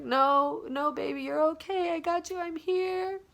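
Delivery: high-pitched comforting voice; reassuring mother. Retold or imitated. Mom comforts her scared daughter, high reassurance. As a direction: soothe your frightened child in a high voice. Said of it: "And my mom was like".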